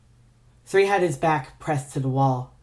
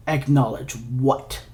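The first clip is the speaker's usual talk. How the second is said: growled; slower than usual. Acted. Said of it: "Three growled".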